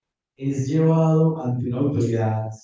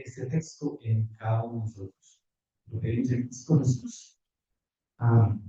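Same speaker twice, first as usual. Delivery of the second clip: real prayer, phrase by phrase, softening towards the end; spoken prayer. Real, not acted. Preacher asks the Lord for understanding, spoken prayer.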